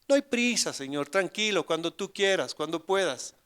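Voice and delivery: relajado y agudo, sin ninguna urgencia; despreocupado burlón. Retold or imitated. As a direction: tono de quien tiene todo el tiempo del mundo. Mocking relaxed prayer. (padre que le dice a Jesús que no hay prisa, en tono relajado)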